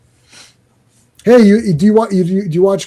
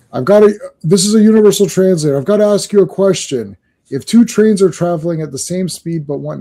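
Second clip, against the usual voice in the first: eager questioner; 4 semitones higher than usual. Acted. Acting out question to universal translator.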